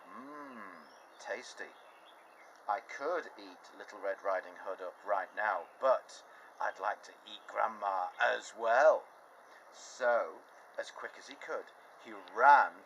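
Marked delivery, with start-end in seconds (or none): 0.1-9.0 wolf's thoughts. Acted. Wolf plotting to eat Grandma, hungry murmur. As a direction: savour the idea slowly. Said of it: "And the wolf thought".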